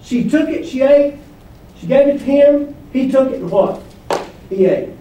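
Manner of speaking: building pace through took, ate, gave; speeding up. Shown as a demonstration. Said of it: "Things are speeding up".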